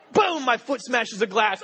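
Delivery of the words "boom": a high, loud sound-effect boom. Retold or imitated. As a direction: slam the boom out. Foot smashes a glass.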